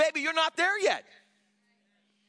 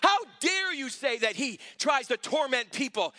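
indignant rebuke. Retold or imitated. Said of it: "I said".

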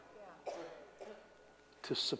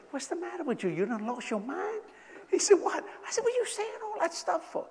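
higher, softer mock rebuke; hushed scolding; 12 semitones higher, 6 dB quieter than usual. Quietly scolding Leroy at the restaurant table, hushed mock rebuke.

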